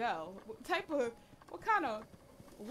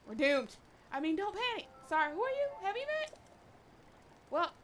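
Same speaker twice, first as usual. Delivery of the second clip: lightly voiced game stranger, higher and louder; a hint of a chatty loner talking to the hero; voicing a game character; 4 semitones higher, 3 dB louder than usual. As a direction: read the stranger's lines with a little extra bounce. Reads game character dialogue.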